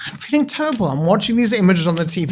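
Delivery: high, upset voice of a distressed former client; worried client. Retold or imitated. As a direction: play the anxious caller. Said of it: "and said".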